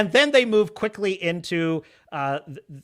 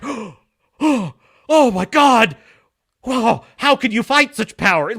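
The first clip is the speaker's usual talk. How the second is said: gasping, higher hammed-up royal shock; mock shock; 5 semitones higher, 5 dB louder, slower than usual. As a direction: play a king aghast, overdone. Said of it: "has the audacity to be shocked by this".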